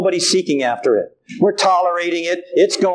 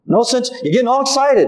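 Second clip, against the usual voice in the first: man telling him to calm; 3 semitones higher than usual. Retold or imitated. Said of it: "I had a man tell me".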